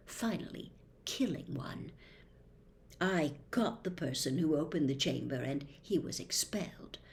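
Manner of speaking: hushed, confiding storyteller, lightly voiced; Tom Riddle. Riddle confides the Chamber's history to Harry, hushed.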